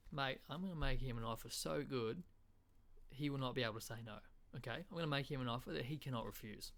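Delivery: chatty, matey Aussie rewording; Australian accent. Acted. Aussie explaining his offer to a mate, plain-spoken Australian. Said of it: "in an Australian accent".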